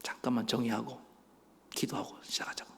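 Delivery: hushed, low-key retold request; gentle pastor, imitated. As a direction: softly imitate a mild pastor. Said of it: "온유한 목사님이".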